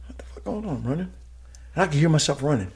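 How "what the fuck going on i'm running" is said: hushed, spooked whisper. Retold or imitated. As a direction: breathe it out as if afraid to break the silence. Eerie silence on the mountain.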